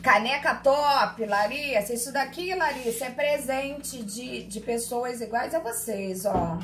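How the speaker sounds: thrilled show-and-tell to the class; excited. Real, not acted. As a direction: show off the mug like a treasured gift. Teacher excitedly shows gifted mug.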